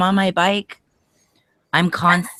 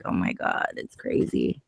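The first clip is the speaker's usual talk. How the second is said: hushed whisper, under her breath; 9 dB quieter than usual. Retold or imitated. Rider retelling her reaction to a fan, whispered.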